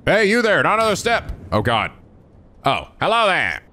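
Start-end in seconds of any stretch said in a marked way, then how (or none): 0.1-1.3 guard's challenge. Acted. 2.6-3.6 high, eager greeting; enthusiastic guard. Acted. Guard hailing young intruders at the gate, enthusiastic and high. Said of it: "The enthusiastic voice comes from a man".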